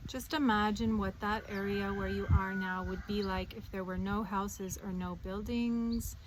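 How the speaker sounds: calm guided meditation voice, with long pauses; unhurried meditation leader, phrases settling at the ends. Acted. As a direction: ease the listener gently into grounding. Leads a meditation.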